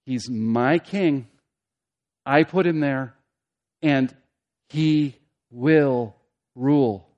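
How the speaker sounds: slow decree, broken into weighty pieces; dreadful declaration. Acted. God declaring his king to raging nations, solemn pronouncement. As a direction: pause before each part, landing every word. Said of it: "the declaration says".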